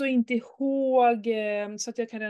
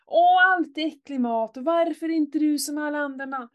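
whiny mock complaint, a bit louder; mimicking the son; 4 semitones higher, 4 dB louder than usual. Mother imitating her son's whining about dinner. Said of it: "han bara matade på".

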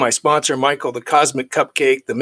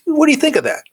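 sponsor's quizzing question, pitched much higher; imitating his sponsor; 13 semitones higher, faster than usual. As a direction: play the sponsor springing a test question. Sponsor repeats the test question.

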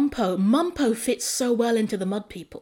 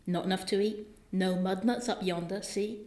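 softer, rustic West Country mum; quietly voiced West Country country mum; West Country accent; 5 dB quieter than usual. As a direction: answer the child in West Country dialect. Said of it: "it's West Country".

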